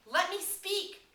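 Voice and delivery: high, loud and slow; shouted plea. Acted. Piggy pleading loudly to speak in the fight. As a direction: demand to be heard.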